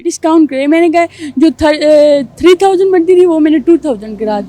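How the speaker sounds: a young man's put-on girlish voice, held through the story; girl's voice. Young man telling the host a story in his put-on girl's voice. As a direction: tell the whole story as a girl would. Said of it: "آپ لڑکی کی ہی آواز میں بتائیں".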